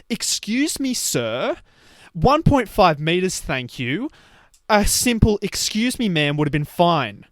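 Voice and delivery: lightly mocked officious store worker; imitated scolding shop lady. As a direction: mimic a woman pointedly correcting a customer. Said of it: "she was saying to my mate".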